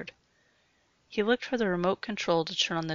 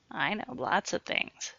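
chuckling. Acted. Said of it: "chuckled Sue".

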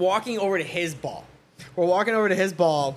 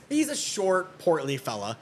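droll description; 3 semitones lower than usual. Real, not acted. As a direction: draw it out drolly. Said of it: "I like the way he does it".

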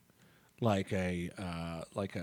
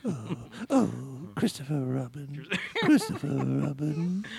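Winnie the Pooh voice; 4 dB quieter than usual. Pretend. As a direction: call Christopher Robin like Pooh. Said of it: "It's kinda there".

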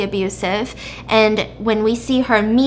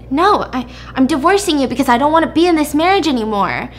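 higher, fast exasperated retort; lightly acted defiant retort, hurried; firm protest; 4 semitones higher, 3 dB louder, faster than usual. Wife tells husband why she is divorcing, protesting. Wife argues back in retold quarrel.

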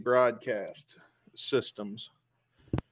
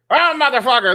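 much higher, loud fed-up outburst; exasperated curse; 12 semitones higher, 11 dB louder than usual. Retold or imitated. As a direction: blurt it out at the wall in disbelief. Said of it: "and I hear".

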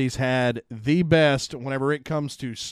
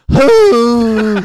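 high, loud laughing question; 8 semitones higher, 15 dB louder than usual. Real, not acted. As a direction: squeal it out through laughter. Laughing at the sneeze story.

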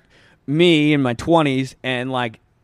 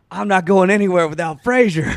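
raised, louder voice imitating a stubborn friend; retold defiant protest; 5 semitones higher, 5 dB louder than usual. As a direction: declare it loudly, mock-refusing to budge. Willie protests in retold lobby scene.

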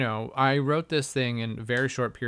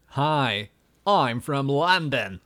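posh southern English; much slower than usual. Shown as a demonstration. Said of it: "people from the south are like".

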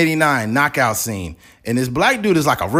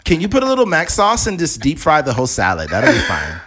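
entitled customer; 4 semitones higher than usual. Pretend. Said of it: "They go to McDonald's like".

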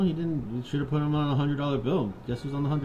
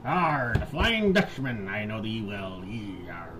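mock pirate; 4 semitones lower than usual. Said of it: "do a pirate voice".

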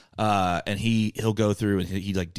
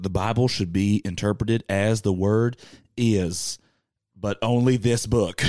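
slow, lightly put-on Southern accent; mock a staunch Southern believer, drawn out; slower than usual. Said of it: "always a Southern accent we use".

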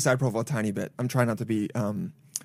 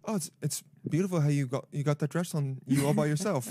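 softer, backhanded compliment; mock polite condescension; 6 dB quieter than usual. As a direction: play a benign-sounding put-down, understated. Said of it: "make you feel bad about yourself".

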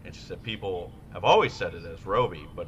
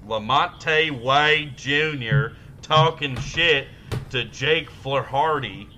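mock announcer; 4 semitones higher, 6 dB louder, slower than usual. Mock sports announcer hype.

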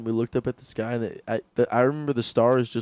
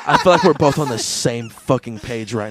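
louder acted-out trip talk; mock intense declaration; 6 dB louder than usual. Storyteller acting out his tripping friend, loud and emphatic. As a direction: push it out loud through laughter.

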